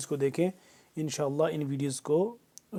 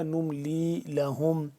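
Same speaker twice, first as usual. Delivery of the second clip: whispered; much slower than usual. Shown as a demonstration. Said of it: "مشدد پہ غنہ ہوگا".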